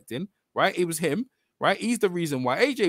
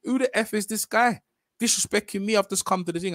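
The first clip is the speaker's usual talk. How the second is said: higher-pitched imitation of an affronted boxer; retold indignant complaint; 5 semitones higher than usual. Voicing the boxer's complaint about disrespect, indignant. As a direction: act out his disbelief without shouting. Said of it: "And Wilder's like".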